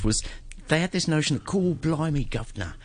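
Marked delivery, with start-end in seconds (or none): 1.4-2.7 put-on stereotype Cockney accent. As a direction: fake stage Cockney, starting high and dropping away. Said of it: "Cockneys never really sound like that".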